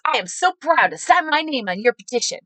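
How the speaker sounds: proud supporter. Retold or imitated. Supporter signing the candidate's petition, proudly excited. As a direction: gush with pride.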